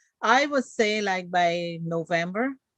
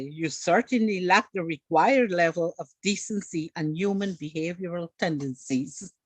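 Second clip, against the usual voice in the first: lightly voiced prim, formal English; proper English. Shown as a demonstration. The host's proper version, a hint of formal English. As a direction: say it the way a polite, proper speaker would. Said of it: "Marla would say".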